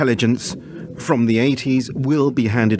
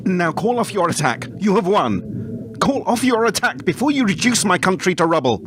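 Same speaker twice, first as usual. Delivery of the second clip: rising higher, pleading urgently; desperate plea; 5 semitones higher than usual. Acted. Begging the attacker to spare his country, pitch climbing in desperation. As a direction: beg him to stop before it's too late.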